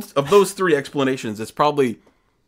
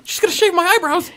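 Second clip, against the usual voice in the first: panicked whisper; 5 dB louder than usual. Pretend.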